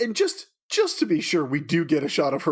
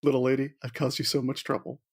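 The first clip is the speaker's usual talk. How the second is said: put-on light cowboy accent, pitch kept near usual; 2 semitones lower, 3 dB quieter than usual. Horse apologizing to his little lady, light cowboy accent. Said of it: "say it in a cowboy accent".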